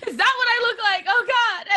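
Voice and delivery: high, loud wail through laughter; hammed-up dismay, cracking up; mock horror. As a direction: laughingly imitate someone appalled at their reflection. Voicing his horror at own reflection.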